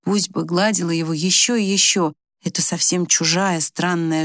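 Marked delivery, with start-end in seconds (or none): none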